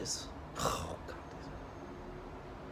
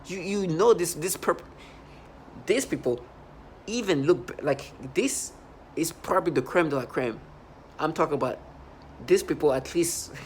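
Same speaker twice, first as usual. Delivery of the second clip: louder and higher throughout; heated rant; 3 semitones higher, 3 dB louder than usual. Real, not acted. Complaining to viewers about perps, loud and heated. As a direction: push it out hot and loud.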